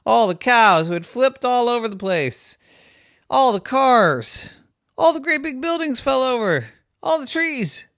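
high, climbing storyteller exclamation; mounting dismay. A narrator's reading. Storyteller listing everything flattened, rising dismay. Narrator's list of destruction mounts.

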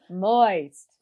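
fading mock whisper. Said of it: "losing consciousness and goes".

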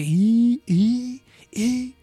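short repeated Japanese-sounding "y"; Japanese-style filler. Retold or imitated. Showing how real Japanese people talk, short repeated fillers. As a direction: clip the "y" sounds like a Japanese speaker. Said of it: "sí le hacen así como que".

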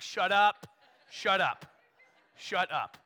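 mock-irritated snap, loud then easing off; retold teenage annoyance, punched out; annoyed retort. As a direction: shut down teasing friends. Teen snapping back at teasing friends.

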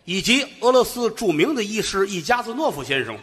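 formal, rhythmic eulogy recitation; hammed-up funeral oration; mock eulogy. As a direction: recite like a solemn funeral speaker.

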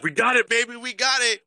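retold excited shout of certain victory; retold celebration. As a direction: cheer like the game's already won. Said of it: "and we're like".

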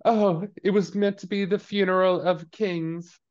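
high, slow, dramatic lament; theatrical grand mother. Retold or imitated. Mother mourning her son at the funeral, grand. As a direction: overplay the grief of a grand lady.

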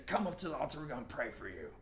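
lightly voiced preacher, softened; quiet mock invitation to prayer; prophet's altar call. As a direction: imitate a distant altar call, softly. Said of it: "big prophet person that, that was praying".

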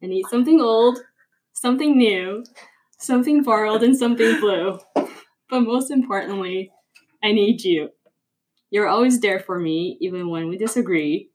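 reciting a rhyming poem; poem recital. Acted. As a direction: read it like a heartfelt poem.

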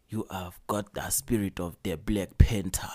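hammed-up African accent, low and measured; mock African accent. Co-host mocking a film's accents, mock African accent. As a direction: put on a bad movie African accent. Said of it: "maybe he's from wherever they speak, like".

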